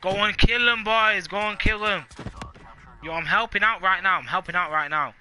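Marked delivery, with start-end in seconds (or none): 0.0-2.0 loud rallying cry; hyped shout. Real, not acted. Hyping up teammates in game.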